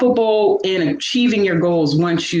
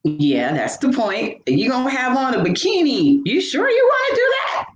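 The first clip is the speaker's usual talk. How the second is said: self-doubt talk; 5 semitones higher than usual. Retold or imitated. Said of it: "But I was like".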